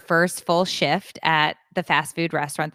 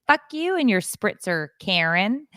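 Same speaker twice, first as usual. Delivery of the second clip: higher-pitched mock indignation; mock outburst; 4 semitones higher than usual. Woman secretly cursing guests with wine spritzers, mock indignant. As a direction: tell them off in a raised pitch.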